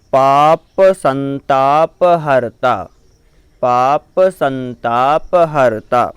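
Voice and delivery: measured, syllable by syllable chant-like reading; slow Sanskrit recitation. Shown as a demonstration. Teacher reciting puja text for students, slow and careful. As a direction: recite each word clearly for the learners.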